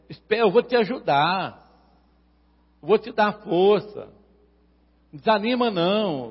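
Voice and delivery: God encouraging a believer. Acted. God speaking to a struggling believer, encouraging. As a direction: hearten someone as God would, insistently. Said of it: "Deus não fala assim com o mundo".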